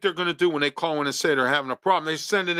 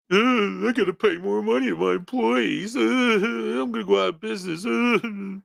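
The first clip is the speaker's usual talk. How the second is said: mock business owner; 6 semitones higher than usual. Mocking complaining business owners.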